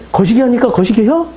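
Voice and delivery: lightly acted Jeolla question; a touch of Jeolla accent; Jeolla dialect. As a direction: ask in homely Jeolla dialect. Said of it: "전라도 말로 제가 번역해서".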